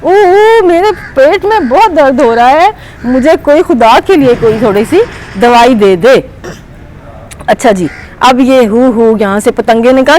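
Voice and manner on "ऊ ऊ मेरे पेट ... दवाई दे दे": crying panda. Acted. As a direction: wail for medicine like a hurting cub. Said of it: "उसने कहा".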